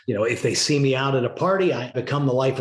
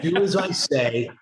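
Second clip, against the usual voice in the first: mildly mock-stern command, slow and a bit higher; authoritarian parent; 4 semitones higher, slower than usual. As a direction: lightly play the bossy dad laying down the law. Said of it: "I become the authoritarian".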